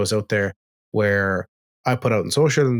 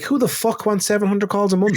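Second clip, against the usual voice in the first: scoffing disbelief; 10 semitones higher than usual. Retold or imitated. Retold scoffing reply to a coach.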